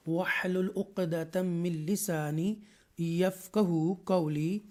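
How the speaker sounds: slow, measured Quranic recitation; Arabic prayer recitation. Acted. Teacher opening the lesson with a dua, measured recitation. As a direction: recite the prayer slowly and deliberately.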